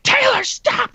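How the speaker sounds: high, loud frantic yell; mom yelling stop. Retold or imitated. Mom yelling at her biting son, frantic loud yell. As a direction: shriek his name to stop the biting. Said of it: "my mom had to run over and be like".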